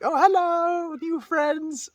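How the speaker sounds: high, sweet little puppy voice; cute puppy voice. Retold or imitated. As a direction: greet them like an eager puppy. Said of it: "she ... was like".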